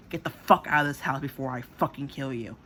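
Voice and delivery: retold furious order; pissed. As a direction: throw them out with a forceful threat. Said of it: "She was pissed".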